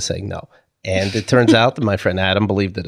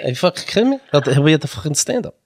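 put-on higher, slurry drunk voice; 5 semitones higher, faster than usual. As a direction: do the drunk bit. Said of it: "We just talk all day in that voice".

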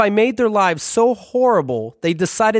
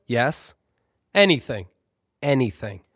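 lower, softer big-brother voice, a bit quick; lightly voiced patient older brother; 5 semitones lower, 3 dB quieter than usual. Brother teaches kid Dungeons and Dragons, lower patient voice.

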